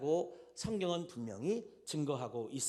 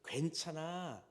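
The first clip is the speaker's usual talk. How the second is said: comforting mother. Retold or imitated. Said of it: "하면서 엄마가 이 아이를 안아줍니다".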